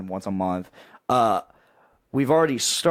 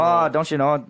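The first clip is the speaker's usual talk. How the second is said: higher, louder Wisconsin accent with long vowels; 5 semitones higher, 4 dB louder than usual. Shown as a demonstration. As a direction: ham up the Wisconsin "don't you know". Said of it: "doing my Wisconsin voice".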